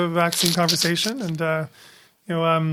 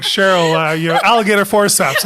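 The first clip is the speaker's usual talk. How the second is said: mock surgeon command; 5 dB louder than usual. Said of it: "I'm like".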